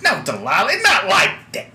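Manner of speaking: high, loud, embarrassed protest; flustered woman. Acted. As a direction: blush and wave it off. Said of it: "she kinda blushes a little bit".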